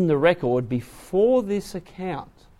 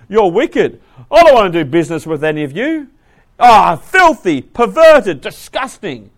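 loud, disgusted denunciation, slowing on the insults; loud mock tirade in disgust; loud proclaiming; 4 semitones higher, 10 dB louder than usual. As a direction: spit out each insult in revulsion.

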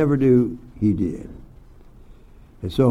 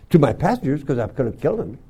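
ordinary talk

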